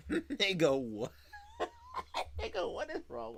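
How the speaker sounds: bursts out laughing, loud and high; laughing outburst. Real, not acted. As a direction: laugh the word out as it hits you. Cracking up at the scene.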